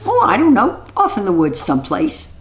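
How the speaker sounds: high witch brushing it off; witch evading. Acted. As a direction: play it falsely casual. Witch evades the question.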